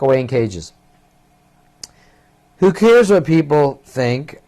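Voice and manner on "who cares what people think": mock snappish mother, drawn out; half-hearted imitation of a mother snapping back. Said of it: "Mother snapping".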